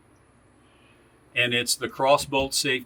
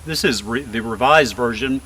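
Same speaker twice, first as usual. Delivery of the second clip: breathless, gasping between words; winded, catching breath; 4 dB louder than usual. Real, not acted. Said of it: "Sorry, I'm out of breath".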